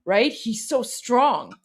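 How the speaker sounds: slow, admiring grandmother voice; imitating grandmother. Iranian grandmother watching Trump on TV, slow admiring imitation. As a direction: linger on each word like a doting grandma. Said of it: "And then she's like".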